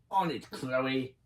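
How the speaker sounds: slow, raspy British robot voice; lightly done raspy British sidekick voice; Thunderbird voice. Shown as a demonstration. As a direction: rasp it out slowly like a British robot. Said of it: "I'm very good at his voice now".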